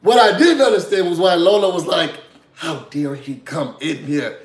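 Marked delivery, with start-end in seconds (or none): 2.5-4.4 slow, quieter mock outrage; mock indignation. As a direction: draw it out as if scandalised. Retold outraged host, drawn out.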